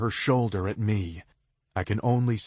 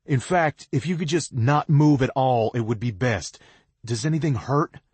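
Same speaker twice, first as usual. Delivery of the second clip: calling down; 5 semitones higher, 7 dB louder than usual. A narrator's reading. Calling down to injured girl.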